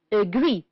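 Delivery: agree, stressed on GREE, falling at the end; stress on second syllable. Shown as a demonstration. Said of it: "stressed on the second syllable".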